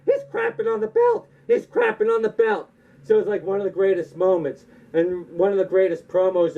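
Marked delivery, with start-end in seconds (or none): 0.1-1.3 He's crapping on the belt in a much higher squeak; panicked official. Retold or imitated. NWA official watching the belt thrown down, high squeak. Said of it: "The guy in the N W A is like". 1.5-2.7 He's crapping on the belt only lightly raised; mild panicked official. Retold or imitated. NWA official watching the belt thrown down, lightly raised. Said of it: "The guy in the N W A is like".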